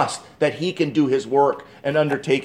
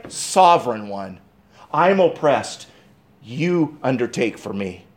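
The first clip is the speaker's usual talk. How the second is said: quiet plea; 4 semitones lower than usual. Shown as a demonstration. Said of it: "can I say it this way?".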